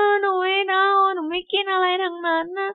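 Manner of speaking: put-on high, whiny child refusing food; whiny little girl. Little sister refusing any food, in a whiny high child voice. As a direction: pout like a toddler turning away the bottle.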